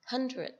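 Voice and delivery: "hundred" with a short second vowel. Shown as a demonstration. A teacher models "hundred" for her student with a short final vowel. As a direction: keep the end of "hundred" short. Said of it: "Âm y ngắn".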